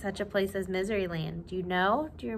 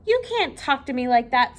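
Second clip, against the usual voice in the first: mild sob; 5 dB louder than usual. Acted. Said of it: "sobbed the king".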